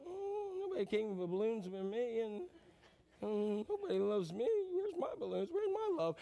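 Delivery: hammed-up lonely traveller; mock self-pity. Lonely traveller without balloons, mock whining self-pity. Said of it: "And then you go".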